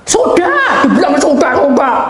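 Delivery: loud, high, fed-up sudah; irritated dismissal. Retold or imitated. Preacher imitates the child snapping loudly to stop asking. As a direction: brush them off sharply.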